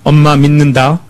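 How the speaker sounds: calm, steady statement of trust; sincere trust. Shown as a demonstration. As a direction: say it plainly and mean it. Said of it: "이렇게 해야지".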